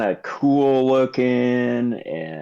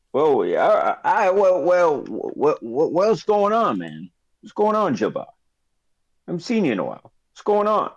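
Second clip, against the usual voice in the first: put-on Boston accent; 4 semitones higher than usual. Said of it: "You had two accents".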